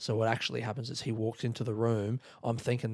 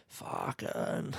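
Australian swear; 6 dB quieter than usual. Pretend. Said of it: "doing a voice of an Australian man swearing".

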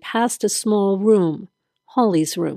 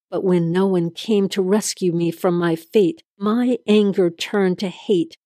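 quiet threat. Acted. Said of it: "he swore in a low, threatening voice".

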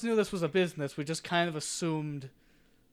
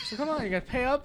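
thug voice; 7 semitones higher, much faster than usual. Acted. GM voices thug shaking down player.

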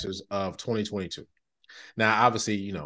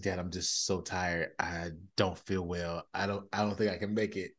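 imitating tired kid; 3 semitones lower, 7 dB quieter than usual. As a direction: mimic a son pleading he's too tired. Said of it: "He said".

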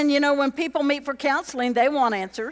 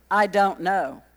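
pastor's warning tone; 4 semitones lower, slower than usual. Retold or imitated. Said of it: "it's just the tone of his voice".

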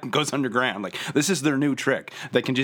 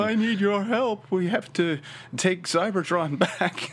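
robot villain voice; 7 semitones higher than usual. Retold or imitated. Continues Shockwave quote.

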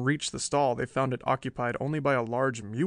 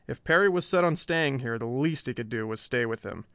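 ordinary delivery

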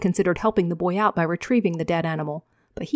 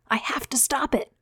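much higher, strained urgency; desperate to break free and help; desperate young man; 8 semitones higher than usual. Acted. Javen pulling against Ravier, high and desperate.

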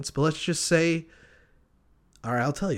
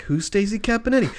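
baffled reply; 7 semitones higher than usual. Acted. Bartender puzzled by frantic question.

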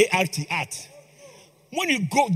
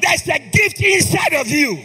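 full-force preaching; 3 semitones higher than usual. Acted. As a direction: preach it out to the whole church.

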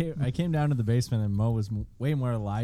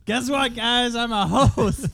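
mock excited; 9 semitones higher, 5 dB louder, much slower than usual. Mock proud announcement.

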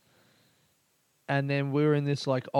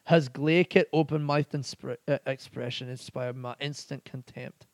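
put-on awful Scottish accent. Podcaster reading out a pub's slang definition in an awful Scottish accent. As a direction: have a bad go at a Scottish accent. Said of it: "That was an awful Scottish accent".

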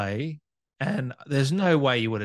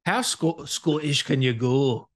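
attempted Scottish accent; slower than usual. Host tries Scottish, called terrible.

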